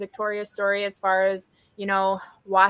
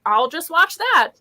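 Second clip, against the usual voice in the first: bright, quick self-talk, rising to higher excitement; mock inner monologue; 4 semitones higher, 4 dB louder than usual. Host imitating herself choosing a movie, a touch excited. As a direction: play out picking a comfort movie, getting more thrilled.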